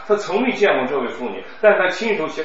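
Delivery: 老师大声示范，说明两个他不清楚. Shown as a demonstration. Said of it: "你像这个他说两个他". (大声示范读)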